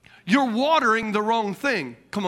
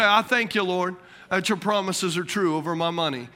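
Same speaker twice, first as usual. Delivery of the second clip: thankful prayer; 4 semitones lower than usual. Retold or imitated. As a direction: thank the Lord gently and sincerely. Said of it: "You say".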